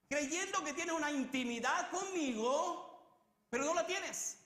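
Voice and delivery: high, loud, slow voicing of Jesus' reproach; forceful rebuke. Preacher voices Jesus rebuking false friends, loud and slow. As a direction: preach Jesus' challenge at full force, drawn out.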